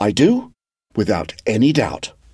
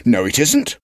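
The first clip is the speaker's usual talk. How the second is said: firmly; 2 semitones higher than usual. Acted. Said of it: "he said firmly".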